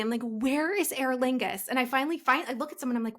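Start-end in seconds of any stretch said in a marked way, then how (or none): 0.2-1.7 frantic calling out. Retold or imitated. Searching the terminal, retold.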